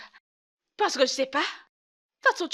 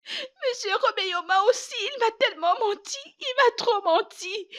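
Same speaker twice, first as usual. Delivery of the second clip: high protest; 8 semitones higher than usual. Acted. Wife protests husband lied too.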